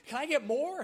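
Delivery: high, loud eager plea; eager begging. Retold or imitated. Sarah begging for more.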